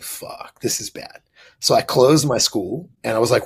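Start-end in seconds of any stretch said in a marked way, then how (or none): 0.0-1.2 breathless whisper of panic; a whispered fuck as he realizes he's losing the fight; whispered dread. Retold or imitated. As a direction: hiss it under your breath, scared. Retelling being beaten by the grappler.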